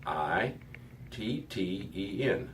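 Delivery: slow letter by letter spelling; spelled out. Shown as a demonstration. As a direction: spell it out, one letter at a time. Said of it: "transliterating that to English".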